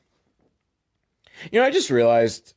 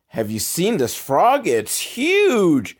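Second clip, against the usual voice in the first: higher, lightly voiced kid; a lightly voiced kid showing off a frog; excited boy; 7 semitones higher, slower than usual. Son in front seat shows the frog, lightly voiced excited kid.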